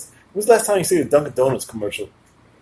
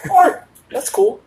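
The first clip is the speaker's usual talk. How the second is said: mature calm; 13 semitones higher, slower than usual. Retold or imitated. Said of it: "For me, I'm like".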